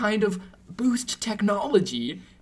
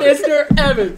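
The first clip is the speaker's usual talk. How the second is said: loud, higher-pitched cry of the name; calling out; 7 semitones higher, 11 dB louder than usual. Acted. Employee urgently hailing the boss, loud calling out. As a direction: call urgently over the other person.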